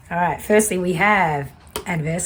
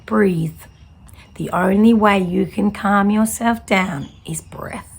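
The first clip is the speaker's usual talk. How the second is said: soothing anaesthetist. Retold or imitated. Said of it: "he was so soothing".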